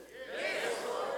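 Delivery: barely breathed, unsure reply; a half-hearted whisper of faith; timid whisper. Acted. Congregation's weak whispered answer, corrected by the preacher. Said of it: "It's better. We'll get there".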